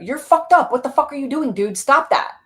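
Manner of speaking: high, loud scolding; harsh inner critic. Acted. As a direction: snap at the part like a harsh critic.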